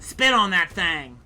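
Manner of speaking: slow, loud excited holler; Hawk Tuah chick impression. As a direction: belt it out slow and loud like the viral girl. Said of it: "That was my best Hawk Tuah chick impression".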